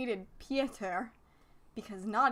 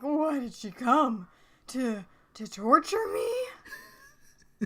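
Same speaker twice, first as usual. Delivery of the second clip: slow, high, crying complaint; melodramatic wail; 3 semitones higher, 4 dB louder, much slower than usual. Acted. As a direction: wail it like a soap opera. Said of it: "Dance's dad is like".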